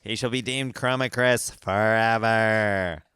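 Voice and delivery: slow, mock-solemn decree; Tony's proclamation. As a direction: proclaim it slowly like a grand naming. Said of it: "I think Tony's just like".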